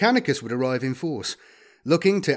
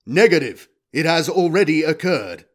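loud, raised robotic refusal; war robot; 4 semitones higher, 7 dB louder than usual. Acted. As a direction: refuse like an implacable machine.

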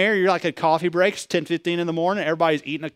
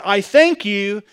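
slow, lofty and self-satisfied, a little louder; smug Pharisee; 2 semitones higher, 5 dB louder, much slower than usual. Retold or imitated. Preacher voicing the Pharisee's prayer, slow and smug. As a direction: drawl it out like a proud man praying to be seen. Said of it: "He goes".

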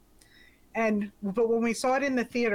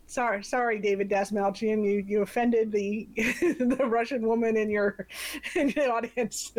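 laughing mock apology. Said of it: "so it's like".

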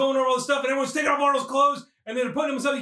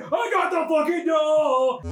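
mock jubilant crow; 2 semitones higher, much slower than usual. Acting out celebrating with the doll.

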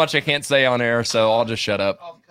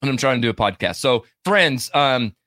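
talking around ice cubes; ice in mouth; 2 semitones lower than usual. Real, not acted. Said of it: "I've got ice in my mouth".

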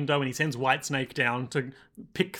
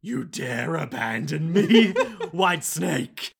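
villain inner voice; much slower than usual. Acted. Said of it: "And then internally".

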